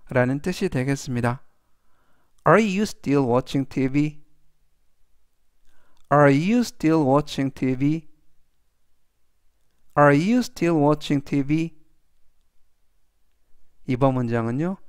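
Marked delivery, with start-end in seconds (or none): 2.5-11.8 very slow question with a rising end; each word spaced out for learners to repeat; slow read-aloud. Shown as a demonstration. Teacher reads the question slowly for students to repeat. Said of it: "천천히 세 번씩 읽어드리고요".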